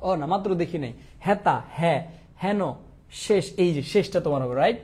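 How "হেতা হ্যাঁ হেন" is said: হেতা and হেন with an open 'ae' sound; open E vowel. Shown as a demonstration. Teacher giving students examples of open E, open vowel. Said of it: "এ ধ্বনির বিবৃত উচ্চারণ".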